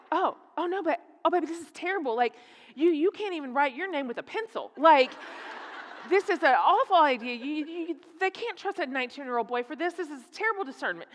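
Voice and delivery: acting out a mother's worried protest; dismayed mother. Acting out her dismayed reaction to son.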